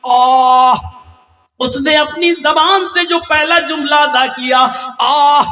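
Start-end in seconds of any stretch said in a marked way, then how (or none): 0.0-0.7 a pained "آہ" cried out loud; mother's first cry. Retold or imitated. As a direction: let out one aching moan as the mother in labour. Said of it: "جو اس نے درد میں پہلی آواز نکالی".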